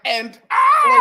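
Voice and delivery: high, loud mock singer's cry; imitating a wobbly singer. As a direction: burst out in a hammed-up wail. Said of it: "She was like".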